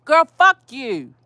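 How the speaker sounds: rising heat through a pretend rant at the neighbour; heated telling-off. Woman scolds the dog-owning neighbour, heated and rising. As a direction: let the anger build as if she's right there. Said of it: "'Cause, yeah, I'm heated".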